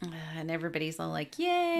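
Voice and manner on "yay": high, loud drawn-out yay; mock cheer. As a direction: cheer like a relieved crowd. Whole bus cheers her departure.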